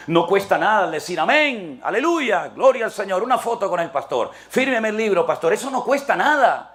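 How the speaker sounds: high, emphatic pulpit voice; forceful preaching. Real, not acted.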